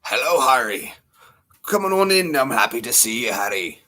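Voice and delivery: hint of a British character voice; lightly voiced greeting in a British accent; rough attempt at an impression; Hagrid. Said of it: "I look like Hagrid".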